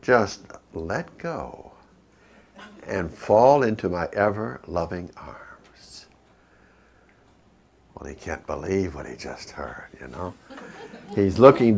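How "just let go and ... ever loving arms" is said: slow, hushed voice from above, ending in a whisper; a gentle divine voice coaxing him to let go; soft and slow, almost a whisper; voice of God. Retold or imitated. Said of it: "the voice says".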